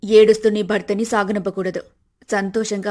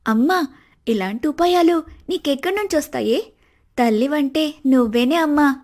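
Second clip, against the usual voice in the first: delighted praise; 4 semitones higher than usual. Acted. Daughter praises mother's scheme.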